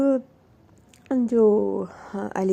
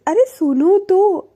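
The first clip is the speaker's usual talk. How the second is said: pleading call; 5 semitones higher, 6 dB louder, slower than usual. Retold or imitated. Alisha stops Anu angrily leaving.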